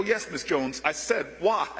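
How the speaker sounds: low, deferential answer; meek reply. Retold or imitated. Young law graduate patiently pressing the elder, low and deferential. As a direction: answer her like a patient, respectful young man.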